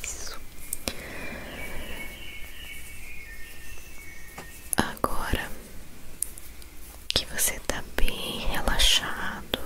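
slow whispered relaxation guide; guided meditation. Acted. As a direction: whisper them into calm, slowly. Leads whispered breathing relaxation.

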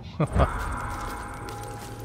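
brief, unvoiced laugh; short chuckle. Real, not acted. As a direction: chuckle lightly at your own remark. Chuckles at own death remark.

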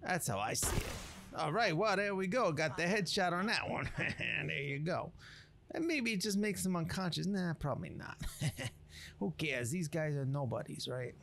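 lightly put-on swaggering streetwise narrator; a hint of a cocky wasteland chef telling a legend; Ghost Chef voice. Explaining the legend of this guy, a lightly voiced cocky chef. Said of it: "I'm just basically doing it as his voice".

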